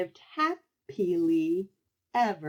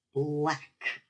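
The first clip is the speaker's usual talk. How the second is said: disgusted. Acted. Child forced to eat candy.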